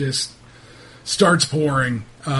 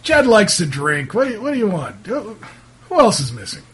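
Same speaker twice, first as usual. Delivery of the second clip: lightly voiced, put-upon townsman; a hint of a dismissive local; defensive local man; 5 semitones higher, faster than usual. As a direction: question them back with mild impatience. Game master plays irritated local.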